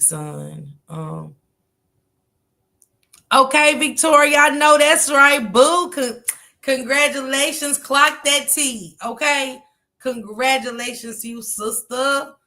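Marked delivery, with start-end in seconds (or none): 3.3-5.9 excited hype. Real, not acted. Hyping a viewer on a live stream with a loud, high cheer. 5.9-12.3 excited praise. Real, not acted. Celebrating a viewer's success.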